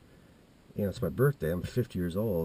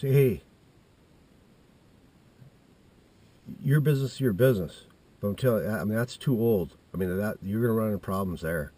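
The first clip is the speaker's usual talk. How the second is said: raised-voice dad objecting; fatherly warning; 5 dB louder than usual. Retold or imitated. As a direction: imitate a dad butting in with a warning. Imitates dad warning his son.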